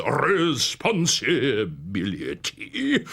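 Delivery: very slow, rolling courtroom boom; slow, round, pompous barrister; orotund Buzz Fuzz. Acted. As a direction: savour every syllable like a pompous lawyer. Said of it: "The orotund voice of Sergeant Buzz Fuzz".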